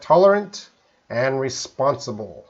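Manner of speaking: "tolerant" and "responsible" pronounced clearly for a learner; pronunciation demo. Shown as a demonstration. Teacher answers a student asking how to pronounce them, clear pronunciation demo. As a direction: model "tolerant" and "responsible" as dictionary words. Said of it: "can you pronounce tolerant".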